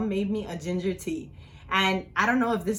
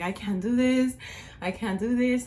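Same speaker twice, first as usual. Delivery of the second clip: higher, lightly whining plea; a touch of mock tearfulness; mild imitated crying; 4 semitones higher than usual. Daughter in contractions tells her mother, mildly tearful. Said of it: "I'm crying".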